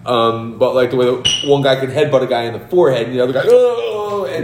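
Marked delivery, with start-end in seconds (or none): 3.4-4.2 high, drawn-out "ohh" of pain; mock pained groan. Acting out the headbutted guy, mock pained groan. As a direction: groan high like a wrestler taking a hit.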